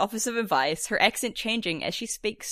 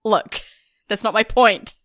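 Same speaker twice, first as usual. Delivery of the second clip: sassy reply; 9 dB louder than usual. Retold or imitated. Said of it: "she's like".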